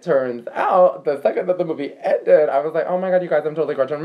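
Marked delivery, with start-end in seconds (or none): 2.9-4.0 retold gushing.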